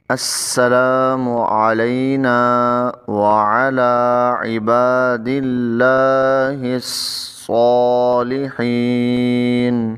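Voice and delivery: careful, drawn-out recitation; slow Quran recitation. Shown as a demonstration. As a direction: recite each word slowly and clearly. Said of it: "teacher recites the phrase". (آہستہ تلاوت)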